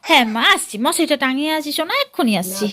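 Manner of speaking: loud call across the house. Real, not acted. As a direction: call back loudly to someone in another room. Answering mother from another room.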